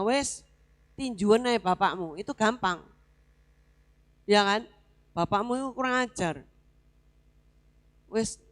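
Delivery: quiet, hushed imitation of bad counsel; lightly voiced careless adviser, low and soft; mock lax advice. Pastor mimicking worldly advice to a child, hushed.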